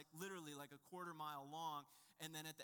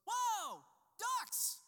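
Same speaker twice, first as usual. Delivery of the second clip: much higher, loud delighted squeal; thrilled child; 14 dB louder than usual. Retold or imitated. Little girl spotting ducks in the pond, shrieking with delight. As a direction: shriek with a kid's joy at ducks. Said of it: "And she goes".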